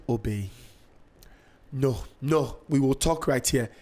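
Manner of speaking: imitated stern Nigerian mother, restrained; measured Nigerian-accented telling-off; mom's Nigerian accent. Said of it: "She's, like, in this accent".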